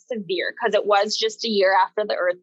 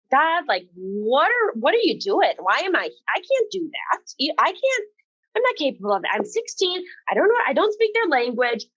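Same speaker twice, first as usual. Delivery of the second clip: retold panic; 5 semitones higher than usual. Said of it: "like, just freaking out".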